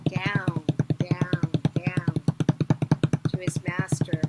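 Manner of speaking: loud chant of the descent; running down. A narrator's reading. Narrator drives the guard's run down, loudly chanted. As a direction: pound out each step down, loud.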